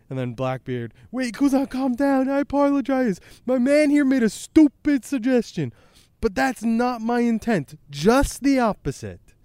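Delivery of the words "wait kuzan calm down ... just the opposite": much higher, louder character voice; placating pirate. Acted. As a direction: talk him down in a high, hurried-to-appease voice. Blackbeard placates angry Kuzan.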